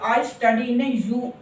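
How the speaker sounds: "I study in a U-" drawn out slowly; teacher modelling the sentence slowly; slow model sentence. Shown as a demonstration. Teacher showing students how they would say it, slowly. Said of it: "तो जब आप बोलते हो ना".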